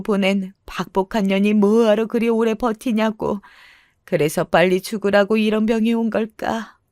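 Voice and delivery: lightly voiced weary self-pitying mother; understated bitter lament over her own fate; a touch of resigned self-reproach.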